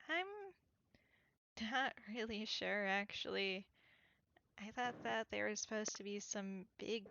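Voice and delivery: lightly voiced weary character, quiet and puzzled; understated tired, hesitant reply; exhausted man, unsure. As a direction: muse softly, a touch uncertain.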